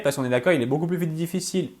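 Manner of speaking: rushed, running the words together; hurried and tossed off; too fast. Real, not acted. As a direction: speak too quickly, tripping ahead. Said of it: "je parle trop vite".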